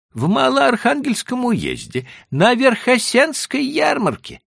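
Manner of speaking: put-on high, pleading old merchant; timid Jewish trader. A narrator's reading. Leiba's voice in dialogue.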